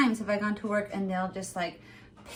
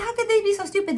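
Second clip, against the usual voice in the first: higher, incredulous; a higher baffled exclamation; mock disbelief; 8 semitones higher, much faster than usual. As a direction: act stunned by the question. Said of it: "That's why I said".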